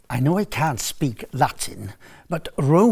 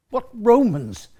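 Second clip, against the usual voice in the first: ordinary talk, nothing marked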